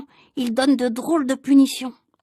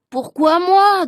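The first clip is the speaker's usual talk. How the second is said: indignant protest; 5 semitones higher, 6 dB louder, much slower than usual. Acted. Alceste protesting.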